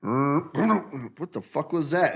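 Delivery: very slow, stretched out in disbelief; hammed-up slow bewilderment; drawn-out mock surprise. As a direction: drag every word out, baffled. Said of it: "and you're like".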